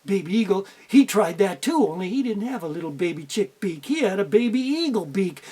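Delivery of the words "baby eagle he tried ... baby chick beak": plain reading voice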